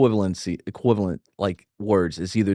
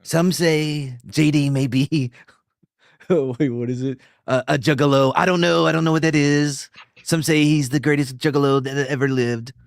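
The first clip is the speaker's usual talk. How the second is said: parody narrator; 2 semitones higher than usual. Pretend.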